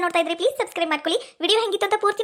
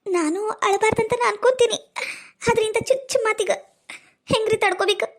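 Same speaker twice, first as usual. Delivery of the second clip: hurt, holding back tears; a touch of crying between phrases; tearful; 3 semitones higher than usual. Acted. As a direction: plead your hurt through catches of breath. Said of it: "ಅಳಬೇಡ".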